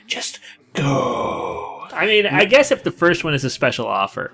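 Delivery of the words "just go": low, softer, whimpering "Just go"; pleading moan. Acted. Commentator pleading with the runner, mock whine. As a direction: beg it like a whine. Urging the player on screen.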